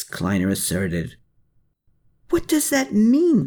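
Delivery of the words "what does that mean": grumbled. A narrator's reading. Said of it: "grumbled Klaus".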